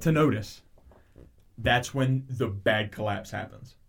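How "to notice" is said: loud, higher angry outburst at the brother; retold scream. Son screaming at his brother about their dad. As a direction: yell the truth out at him. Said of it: "he just screams".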